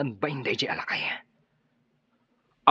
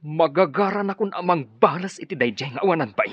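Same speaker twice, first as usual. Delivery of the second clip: angry vow; 4 semitones higher, 6 dB louder than usual. Acted.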